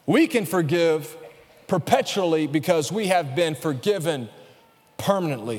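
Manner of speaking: each word set apart slowly; slow, weighty repeat. Shown as a demonstration. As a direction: lean into forgive and have, slowly.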